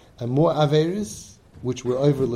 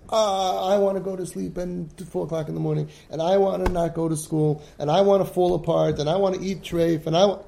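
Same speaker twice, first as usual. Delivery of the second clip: put-on jealous whining kid; 5 semitones higher, 4 dB louder than usual. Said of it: "So you're gonna be jealous".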